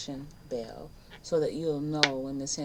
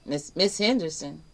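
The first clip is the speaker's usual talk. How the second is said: puzzled; 6 dB louder than usual. Retold or imitated. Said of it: "taken aback".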